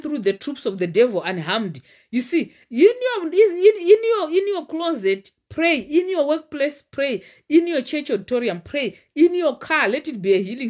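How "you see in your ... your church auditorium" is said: high, loud preaching build. Real, not acted. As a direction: cry it out to the congregation. Preaching at full force.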